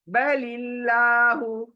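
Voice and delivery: slow बलिल्लाहु, लाम kept thin, not full; thin Allah. Shown as a demonstration. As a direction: draw बलिल्लाहु out with a light लाम. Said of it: "देखिए लॉ नहीं कर रही हूँ मैं".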